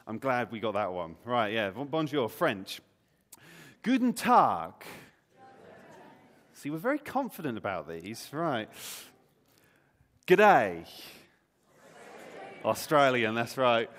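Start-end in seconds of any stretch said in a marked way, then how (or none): 3.8-4.7 higher, louder greeting; calling out. Shown as a demonstration. Calls out greeting for guessing game. 10.3-10.9 loud, half-hearted Australian accent; amateur Australian accent, projected loudly; attempted Australian accent. Shown as a demonstration. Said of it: "I can't do an Australian accent".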